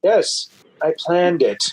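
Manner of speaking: slow, smug villain boast; the author jokes to fans about having planned everything; mock mastermind. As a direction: savor the fake evil genius claim. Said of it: "And I'll be like".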